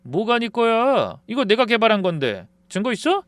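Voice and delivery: shameless smirk. Acted. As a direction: taunt him with a grin. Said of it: "뻔뻔하게 웃으면서 이렇게 말하더군요".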